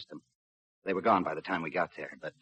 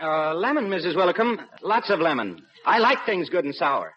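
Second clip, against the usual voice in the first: chuckling; 10 semitones higher, 8 dB louder than usual. Acted. Joking about lemon at tea.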